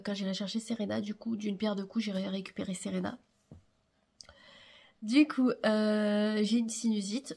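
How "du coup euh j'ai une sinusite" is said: stuffy blocked-nose speech. Real, not acted. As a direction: speak through a blocked nose. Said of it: "vous devez l'entendre à ma voix".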